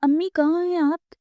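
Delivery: high, loud cry for mother down the stairs; loud distressed call, pitched high. A narrator's reading. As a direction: shout for amma in alarm. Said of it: "بلند آواز میں چلائی".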